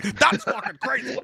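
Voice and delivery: put-on high, slow drunken boast; mock drunk drawl; drunk dude. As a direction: drag it out like a drunk showing off. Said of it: "just drunk".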